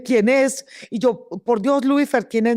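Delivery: high alarmed plea; panicked question. Retold or imitated. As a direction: beg to know whose head it is. Panicked question about the head. (pregunta angustiada y aguda)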